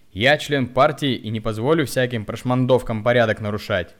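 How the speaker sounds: angry shout. A narrator's reading. Hunchback keeps shouting.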